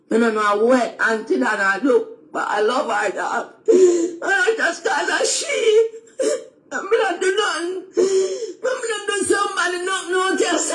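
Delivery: crying while declaring love for her; real tearful plea. Real, not acted. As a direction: voice breaking into tears. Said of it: "why you crying".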